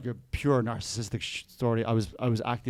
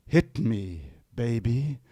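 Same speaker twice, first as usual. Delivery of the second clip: lower, slow breathy pop croon; imitating a pop singer; 3 semitones lower, much slower than usual. Busker quoting a pop singer to the crowd, slow croon. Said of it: "doing Britney Spears".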